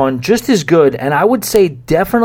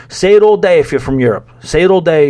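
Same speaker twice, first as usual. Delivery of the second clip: louder, worked-up rant; fired up; 4 semitones higher, 3 dB louder than usual. Real, not acted. Host ranting to listeners about Americans saying holiday, fired up. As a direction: hammer home the point, getting heated. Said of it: "I'm getting all fired up".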